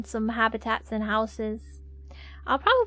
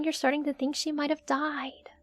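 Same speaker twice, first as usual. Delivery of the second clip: whisper; 2 semitones higher, 6 dB quieter than usual. Real, not acted. Whispered aside about maid.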